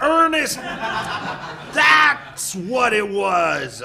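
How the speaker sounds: sudden high burst, laughing, loud; excited recognition. Acted. Mom suddenly recalling the imaginary friend, laughing loudly. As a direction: shout it out as the name comes back.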